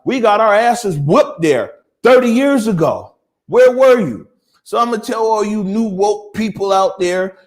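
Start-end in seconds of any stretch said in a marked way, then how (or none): 0.0-4.3 building to a louder, higher challenge; rising anger, ending in a sharp loud demand; heated call-out growing louder; angry rebuke. Real, not acted.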